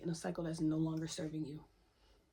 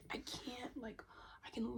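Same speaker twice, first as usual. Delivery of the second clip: high but much softer, energy dropping; exasperated, drained; 4 semitones higher, 8 dB quieter than usual. Real, not acted. Venting at the people who let her down, quiet exasperation. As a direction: let it fall away softly.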